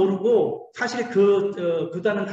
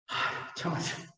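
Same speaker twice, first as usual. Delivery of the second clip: softer, breathy aside; whisper; 8 dB quieter than usual. Real, not acted. Preacher confiding to the congregation, whispered. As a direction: confide it under your breath. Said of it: "whispered aside".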